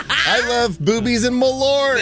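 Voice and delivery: high, laughing as he reads it. Real, not acted. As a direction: read it through a burst of laughter. Reads the sweater, cracking up.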